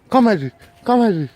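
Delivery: loud, short call; calling a dog. Real, not acted. Calling a dog, first try.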